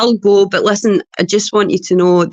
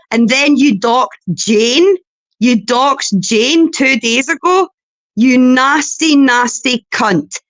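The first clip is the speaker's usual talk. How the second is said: slow, higher, spat-out insults; slow furious; 3 semitones higher, slower than usual. Real, not acted. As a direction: hammer each word slowly.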